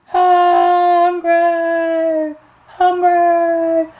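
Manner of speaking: drawn-out wail, dying away; fading troll cry. Acted. Troll floating further away downriver, fading wail. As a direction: let each long cry recede a little further. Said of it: "his voice got quieter and quieter".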